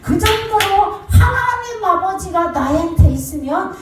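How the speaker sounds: impassioned preaching. Acted. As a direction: lift it up like a preacher in full cry. Preaching at full force. (높고 느리게 노래하듯 외치는 설교)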